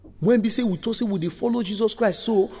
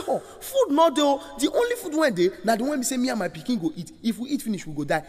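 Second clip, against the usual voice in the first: widow's plea; 4 semitones higher than usual. Acted. Widow answering Elijah.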